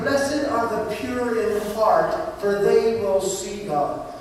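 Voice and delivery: slow, measured reading of the verse; slow scripture recitation. Acted. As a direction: let each word of scripture land.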